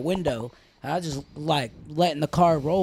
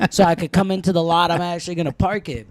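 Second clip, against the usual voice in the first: retold angry comeback; 7 dB louder than usual. Retold snapping at the guard.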